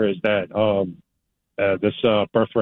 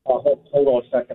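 speakerphone; 2 semitones higher than usual. Real, not acted. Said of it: "It sounds like you're on a speakerphone".

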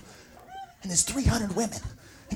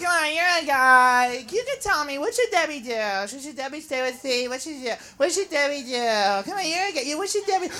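put-on wheedling girlfriend; 3 semitones lower, 11 dB quieter than usual. Girls asking a guy about Debbie, soft wheedling. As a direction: nag him softly, round and round. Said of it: "they're always like".

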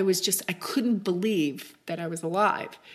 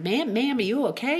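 higher-pitched imitation of a Southern country boy; deep Southern accent; 6 semitones higher, 4 dB louder than usual. Country boy checking on an injured woman, deep Southern accent. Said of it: "deep Southern accent".

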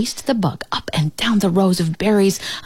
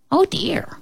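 high startled oh dear; surprised; 12 semitones higher than usual. Acted. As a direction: gasp it out high. Pig exclaims.

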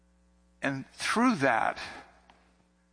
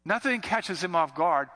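usual speaking voice

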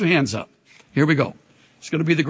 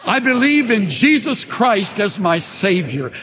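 congregation confession; 4 semitones higher than usual. Shown as a demonstration. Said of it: "Say that".

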